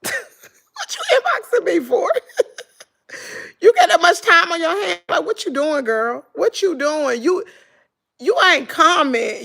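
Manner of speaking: high, laughing mock of a nosy celebrity; mocking quote. Mocking the celebrity who inboxed her, laughing and high.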